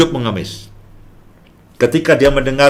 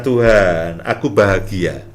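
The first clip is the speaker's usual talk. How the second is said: bahagia yang lembut; 7 semitones lower, slower than usual. Real, not acted. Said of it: "Saya katakan".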